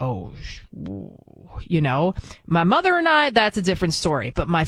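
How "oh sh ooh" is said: very soft, low, shrinking voice; cowed hush. Retold or imitated. Daughter caught by her dad's look, hushed and cowed. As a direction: trail off almost to nothing, as if caught out.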